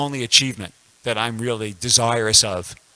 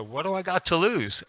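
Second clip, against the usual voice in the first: resolved; 7 semitones higher than usual. Retold or imitated. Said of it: "I said".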